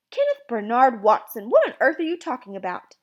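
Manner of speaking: loud, exasperated mother; stern scolding. Acted. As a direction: scold him by his full name. Mother scolds with full name.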